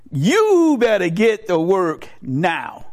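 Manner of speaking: slow, drawn-out command; deliberate, emphatic demand; stern mock order. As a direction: stretch each word into a warning. Brain orders rectum to work.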